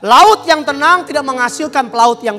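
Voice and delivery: sermon swelling into loud proclamation; forceful pulpit delivery; emphatic preaching. Real, not acted. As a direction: preach it with punched key phrases.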